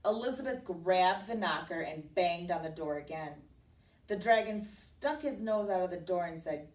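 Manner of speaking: read-aloud storybook telling; emphatic, measured read to a child; story narration. A narrator's reading. Teacher reading a princess story to a child, narrating expressively.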